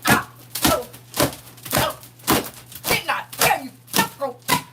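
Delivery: high, crying lament; a grieved Father wails at his child; high wailing God. Acted. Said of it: "he be like".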